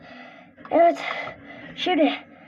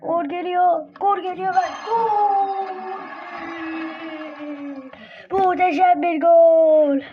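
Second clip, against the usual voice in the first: screaming football commentator; slower than usual. Pretend. Gameplay goal call.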